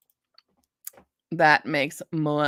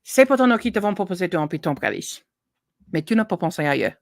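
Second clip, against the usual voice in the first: recited French lyrics; faster than usual. Pretend. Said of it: "That's just song lyrics".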